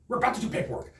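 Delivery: toned-down repeat of a protest; exasperated aside. Retold or imitated. Same protest repeated lower.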